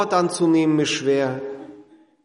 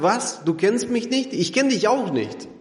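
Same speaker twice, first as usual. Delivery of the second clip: hurt rejection; 4 semitones higher than usual. Pretend. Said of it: "dass Jesus sagt".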